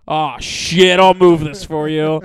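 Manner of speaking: a touch of hammed-up obliging; obliging phone agent. Bank guy fixing a caller's glitch, lightly voiced obliging.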